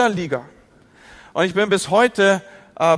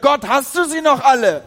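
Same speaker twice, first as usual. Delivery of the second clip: retold shout at God; 6 semitones higher, 4 dB louder than usual. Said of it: "ich hab wirklich geschrien".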